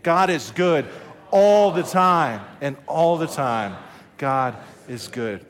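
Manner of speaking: mean every word; say it like you mean it. Shown as a demonstration. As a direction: pastor pushing the church to chant with conviction. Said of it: "say it like you mean it".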